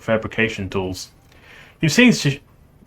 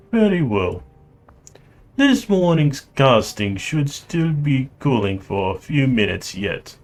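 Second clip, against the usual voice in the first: put-on Russian accent; 4 semitones higher than usual. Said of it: "I will try to do his accent".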